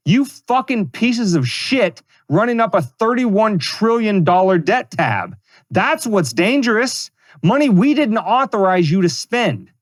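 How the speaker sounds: furious slow tirade at the congressman; angry rant. Real, not acted. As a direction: spit the words out slowly in real anger. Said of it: "Sometimes you just gotta blow a gasket".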